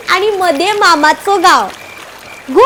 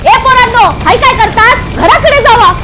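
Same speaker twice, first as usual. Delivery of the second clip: shouting warning; 2 semitones higher, 4 dB louder than usual. Retold or imitated. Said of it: "आमका थंय बघून ओरडलो".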